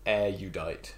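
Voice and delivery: erudite said as "EH-ryoo-dite"; long-U pronunciation. Shown as a demonstration. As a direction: give erudite a long "yoo" sound. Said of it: "the long U as in usual".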